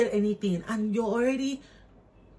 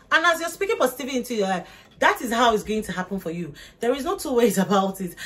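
fast, high, loud push; fired up; 3 semitones higher, 5 dB louder, faster than usual. Real, not acted. Urging viewers to speak positivity, fired up. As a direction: rush it out with conviction. Emphatic pep talk.

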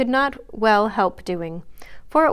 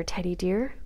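softly, half-kind and half-reproachful; a gentle reproach with a soft tail; tender but faintly scolding; 6 dB quieter than usual. A narrator's reading. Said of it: "in Joe's half-kind, half-reproachful tone".

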